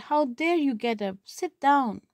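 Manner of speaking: lightly hammed-up angry scold; mock angry shout. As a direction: imitate a bossy sister scolding her dad. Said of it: "started shouting angrily".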